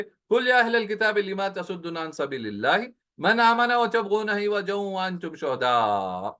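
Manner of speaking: slow, measured chanting of the verse; Quran recitation. Acted. Teacher recites the verse to students in measured chant. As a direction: intone the verse reverently, drawing it out.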